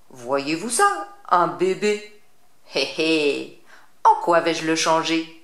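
a witch toying with her prey; gleeful witch. Acted. Witch gloating over baby.

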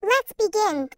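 sped-up squeaky chipmunk voice. Real, not acted. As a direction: talk like a cartoon chipmunk. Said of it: "I put it into a chipmunk voice".

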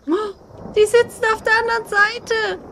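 alarmed at what just moved; creeped out. Real, not acted. Dolls have moved in the game. (beunruhigt, lauter)

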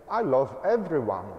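loud, cocky dodge of the question; smart aleck. Retold or imitated. To a wife asking for love, a loud smart-aleck dodge. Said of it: "don't be a smart aleck".

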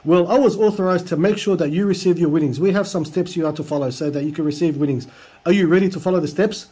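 hammed-up yell of an all-caps scammer text; mock yelling caps. Reading the scammer's all-caps message to the listener, a mild mock yell. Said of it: "Then he starts yelling".

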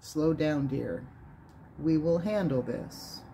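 low, soft, firm radio host calming a caller; deep calming voice. Retold or imitated. Host calms a hysterical caller, low and soft. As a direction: settle her down, low and soft. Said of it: "said in his deep voice".

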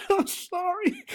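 fighting tears of joy; choked up. Real, not acted. Preacher overcome while teaching, choking up. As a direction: voice catching with emotion. Overcome, apologizes mid-sermon.

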